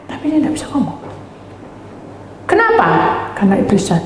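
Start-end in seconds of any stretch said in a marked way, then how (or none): 2.5-2.9 sharp rhetorical question. Acted.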